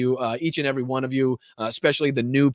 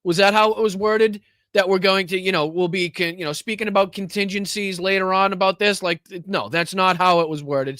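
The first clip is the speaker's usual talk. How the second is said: incredulous; 7 semitones higher than usual. Real, not acted. Host mocks clip, incredulous questioning.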